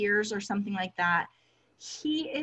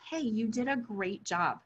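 mild reassuring quote; 2 semitones higher than usual. Retold or imitated. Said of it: "what you did for him was to say".

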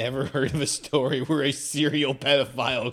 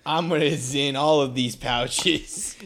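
scolding parent; 4 semitones higher, 5 dB louder than usual. Pretend. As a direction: lecture him like a strict dad.

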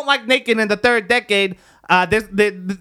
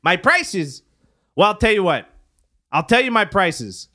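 infomercial; 3 semitones higher than usual. Pretend. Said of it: "was that another pitch".

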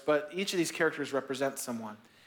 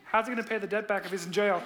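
confused questioning, a bit higher and quicker; puzzled listener; 4 semitones higher than usual. Retold or imitated. Pastor as listener questioning Jesus, quick puzzled tone. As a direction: play the baffled listener poking a hole. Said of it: "I'd be like".

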